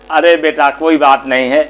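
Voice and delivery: understated motherly reassurance; soothing mother. Acted. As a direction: gently brush off the accident. Mother soothes son after spill.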